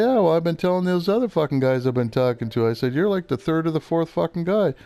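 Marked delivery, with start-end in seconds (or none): 0.1-2.7 retold angry rant. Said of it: "and I'm pissed". 2.9-4.7 retold angry rant. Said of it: "and I'm pissed".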